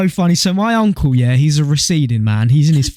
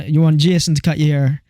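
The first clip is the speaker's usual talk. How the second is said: lightly voiced Jamaican barber; imitating a Jamaican barber; Jamaican accent. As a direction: put on a Jamaican accent for the question. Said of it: "That's quite a good Jamaican accent".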